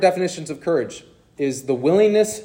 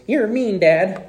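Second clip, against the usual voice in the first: imitated angry three-year-old; 6 semitones higher, slower than usual. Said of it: "he turns to me and he goes".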